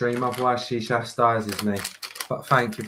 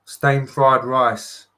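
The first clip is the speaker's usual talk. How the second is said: slow demo of an English accent; 2 semitones lower, much slower than usual. Shown as a demonstration. Modelling it for Monica first, English accent. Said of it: "Steamed fried rice in an English accent?".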